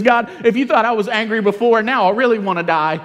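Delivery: put-on griping like a sulking teen; sulky Jonah. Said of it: "he says".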